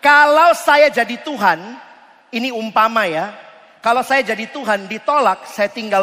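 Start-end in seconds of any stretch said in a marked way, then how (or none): 0.0-1.8 emphatic opening. Acted. Preacher hypothesizing loudly.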